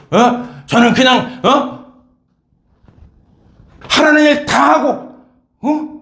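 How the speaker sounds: the elder son's complaint pitched high and heated; indignant tirade. Retold or imitated. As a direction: protest to the father, voice climbing. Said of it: "대들면서 흥분하면서".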